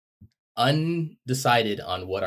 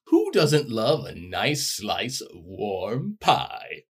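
slow, cozy Santa musing; lightly voiced jolly Santa; 3 semitones higher, much slower than usual. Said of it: "you're gonna be, uh, Santa".

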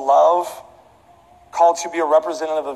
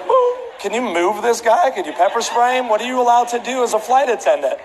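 mock indignant plea; 5 semitones higher than usual. Acted complaint to flight attendant.

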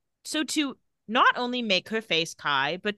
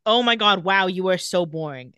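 loud, exaggerated boredom with him; mocking disdain; 6 dB louder than usual. Caroline tells him he is boring, mocking. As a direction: put him down loudly, playfully acted. Retold insult at the party.

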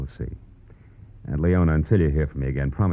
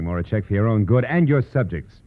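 raised, threatening warning; hard warning; 6 semitones higher than usual. Acted. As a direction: push him to leave town. Warning the painter off.

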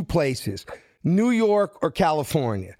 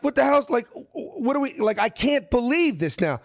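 starstruck disbelief; 9 semitones higher than usual. Retold or imitated. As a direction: blurt it out, unable to believe who just sat down. Starstruck as Carl Weathers sits down.

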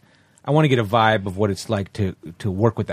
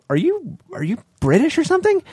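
surprised question; 14 semitones higher than usual. Retold or imitated. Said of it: "We're like".

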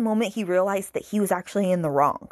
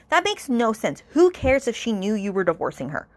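exasperated retort; 4 semitones higher than usual. Retold or imitated. Reader retorts to character.

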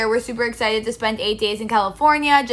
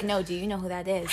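retold whisper; 5 semitones lower, 11 dB quieter than usual. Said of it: "whispering under our masks".

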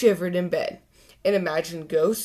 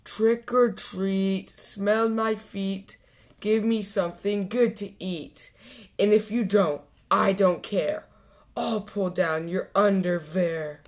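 Dracula voice. Acted. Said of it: "in his best Dracula voice".

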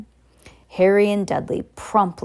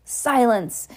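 yelled; 5 semitones higher than usual. Acted. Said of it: "yelled Uncle Vernon".

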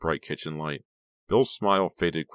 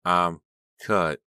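hoarse rasp; 5 dB louder than usual. A narrator's reading. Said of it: "hoarse whisper".

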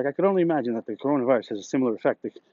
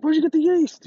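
much higher, louder squeak of disbelief; shocked disbelief; 14 semitones higher, 4 dB louder than usual. Retold or imitated. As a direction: blurt it out in mock astonishment. Shocked question to the coworker.

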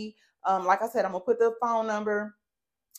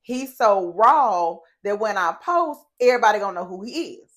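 reading out own comment; 7 dB louder than usual. Retold or imitated. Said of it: "so I commented and I said".

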